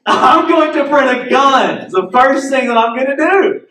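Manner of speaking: mocking a man who prints a gun; mock gleeful. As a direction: ham up the proud gunmaker. Man mocked grabbing the gun.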